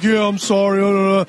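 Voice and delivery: mock blubbering apology; hammed-up sorry act; upset groom. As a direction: imitate an upset groom trailing into babble. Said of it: "he's all fucking upset".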